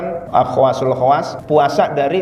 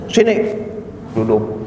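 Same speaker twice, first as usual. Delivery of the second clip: barked higher command; stern boss order; 8 semitones higher than usual. Retold or imitated. Boss ordering employees to sit, stern bark.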